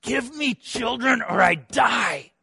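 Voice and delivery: high, strained plea, slowed down; desperate demand. Acted. Rachel pleading desperately with Jacob for children. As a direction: beg him as if life depends on it. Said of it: "So she said to Jacob".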